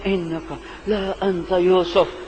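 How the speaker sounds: soft, trembling mix of dread and hope; fearful hope. Acted. Brothers recognizing Yusuf, soft fearful hope. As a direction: barely dare to say it. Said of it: "ڈر اور خوف اور امید".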